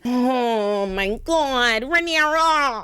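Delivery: rising exasperation building to a near shout; exasperated outburst. Real, not acted. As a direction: yell at the queen to go harder. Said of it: "I say".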